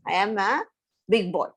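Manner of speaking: put-on quick, brushing-off kid voice; eager little frog. Little frog promising his mother quickly, in a rushed kid voice. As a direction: rattle it off like a child reassuring mom. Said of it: "So the little frog says".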